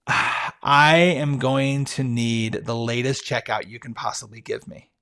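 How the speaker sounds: slow, drawn-out confession that fades away; milk the big reveal slowly, then let it trail off; a hammed-up guilty ask, slow and fading; mock dramatic confession. Confessing the big request to the hotel clerk.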